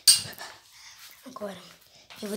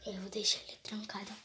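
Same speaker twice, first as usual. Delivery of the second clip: whispering; 3 semitones lower, 8 dB quieter than usual. Real, not acted. Hiding from monster.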